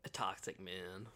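whispered aside; unvoiced, low muttered comment. Real, not acted.

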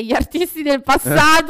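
breaking into a real laugh mid-phrase. Real, not acted. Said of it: "Che te ridi?". (scoppiando a ridere mentre parla)

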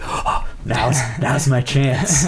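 put-on slow, thickly overdone Boston accent; gasp, then seize on the Boston vowels; mock-eager hammed-up Boston accent. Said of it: "it's just, like, the thick put on".

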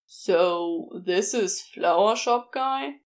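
put-on a co-worker sizing up the boyfriend; curious co-worker. A narrator's reading. Co-worker voiced in story.

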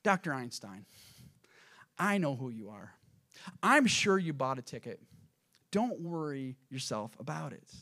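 calm him down with measured pauses; composed conductor soothing a passenger; calm reassurance. Acted. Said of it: "conductor calmly said".

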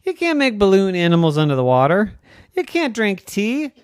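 playful rapid scolding; fast excited rant. Acted. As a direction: rattle it off like a smug kelp. Kelp's fast lecture.

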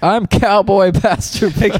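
high, slow, loud cowboy pastor drawl; cowboy preacher. Pretend. Puppet pastor introduces himself to the church as cowboy, slow and loud. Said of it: "comes on with a cowboy hat".

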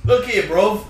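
comic British tough-guy accent, breaking off into laughter; Peaky Blinders British. Shown as a demonstration. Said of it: "I think Peaky Blind".

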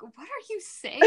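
high, laughing mock confusion; amused confusion at Australian slang; confused laugh. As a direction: laugh through a baffled question. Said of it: "I'm like".

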